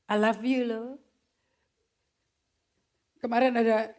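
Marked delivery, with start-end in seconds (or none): 0.1-0.9 mock casual boyfriend. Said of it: "kayak pacarmu tuh".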